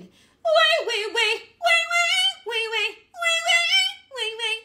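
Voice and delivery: high loud bratty wailing way; bratty cry. Shown as a demonstration. Teacher demos a bratty crying call, high and loud. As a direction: wail way like an ugly bratty baby. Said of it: "Really kind of bratty and kind of ugly".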